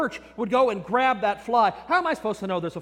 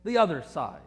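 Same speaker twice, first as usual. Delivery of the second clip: calm instruction; 8 semitones lower than usual. Acted. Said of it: "he says".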